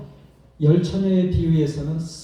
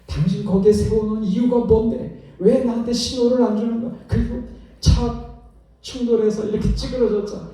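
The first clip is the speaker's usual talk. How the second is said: angry shout at wife; 5 semitones higher than usual. Retold or imitated. Husband yelling at his wife over the crash, angry. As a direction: snap at her as the car hits the pole.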